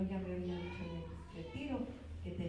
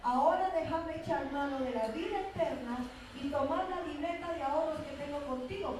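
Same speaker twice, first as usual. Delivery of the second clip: bold retold prayer; 6 semitones higher, 4 dB louder than usual. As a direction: press each phrase upward, claiming what is owed. Acts out her bold prayer to God. (oración audaz e insistente)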